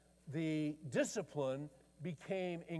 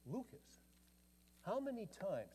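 stern father; 5 semitones higher, 7 dB quieter than usual. Retold or imitated. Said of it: "he said".

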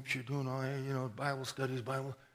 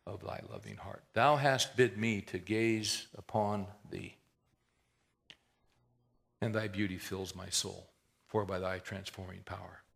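recited hymn; 5 semitones lower than usual. Retold or imitated. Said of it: "maybe you know this hymn".

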